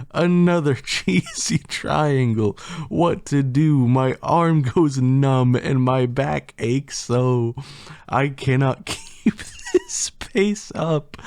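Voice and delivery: high, strained lament breaking into laughter; overwhelmed plea. Acted. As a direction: wail it as if you can't keep up. Overwhelmed narrator complains while laughing.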